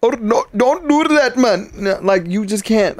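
high, hammed-up Indian accent; high-voiced Indian accent. Joking about being taken seriously, high mock Indian accent. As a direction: imitate an Indian man with a high voice. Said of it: "That has, like, a high voice".

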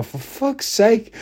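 high, slow, weary imitation; exasperated wife. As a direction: drag it out like a fed-up wife. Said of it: "she'll go".

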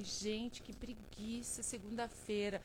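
suspiro mole e bem mais baixo; preguiça de segunda. Retold or imitated. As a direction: reclame da segunda arrastando, sem energia. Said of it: "eu falei assim". ("que preguiça" baixinho e arrastado)

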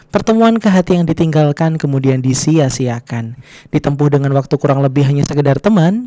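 flight attendant. Pretend. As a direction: read it like a cabin announcement. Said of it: "pakai suara pramugara gitu".

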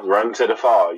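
put-on teasing Boston accent; Boston accent with dropped R; mock Boston accent. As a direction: say it with broad Boston vowels. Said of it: "You so goddamn Boston".

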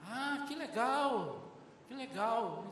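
stretched-out approving reply; acted friendly approval. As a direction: react with a long, lifted "oh, how nice". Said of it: "Falei assim".

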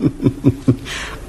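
quiet, breathy laugh; soft chuckle. Acted. Father laughing gently at his own wisdom, soft chuckle. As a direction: let a gentle laugh slip out.

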